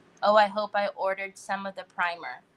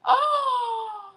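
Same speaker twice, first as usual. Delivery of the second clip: 1 excited gasp; 11 semitones higher than usual. Real, not acted. Gasp after the puppy wins.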